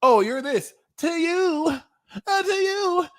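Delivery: mocking comeback. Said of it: "be like".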